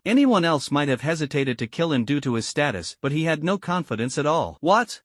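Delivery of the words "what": sharp high mocking "What?". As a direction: taunt it up high. Mocking captor taunts.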